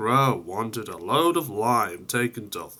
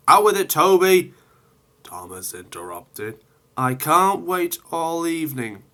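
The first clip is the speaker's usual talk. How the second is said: higher, louder, fast demand; impatient Thomas; 6 semitones higher, 4 dB louder than usual. Acted. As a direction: cut him off impatiently.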